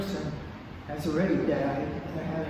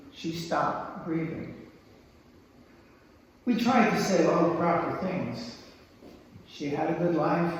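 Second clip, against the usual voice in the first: slow, solemn poetry reading; poem reading; slower than usual. Acted. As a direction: read it gravely with pauses. Reads second poem aloud.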